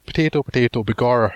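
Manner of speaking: mock cliched Irish accent; lightly put-on stage Irish accent. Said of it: "that sort of cliched Irish accent".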